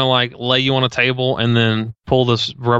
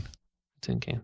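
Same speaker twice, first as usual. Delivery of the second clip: muffled, softer, slow tinny voice; tin can voice; 7 semitones lower, 16 dB quieter, much slower than usual. Shown as a demonstration. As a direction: sound like a bad line in a tin can. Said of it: "you sound like you're in a tin can".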